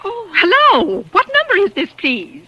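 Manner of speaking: high, slow, trembling hello; shaken hello. Acted. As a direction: reach out afraid on the line. Woman overhears murder plot.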